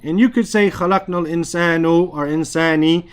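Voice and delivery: fast, الْإِنسَانُ with a dhamma, then insani with a kasra; casual demo of common errors; wrong vowel demo. Shown as a demonstration. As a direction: toss off the mistaken endings quickly. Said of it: "I just said it wrong".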